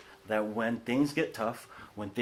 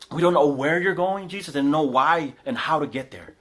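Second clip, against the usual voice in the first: whiny Thomas; 3 semitones higher, 5 dB louder than usual. Retold or imitated. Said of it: "he has this whiny voice about him".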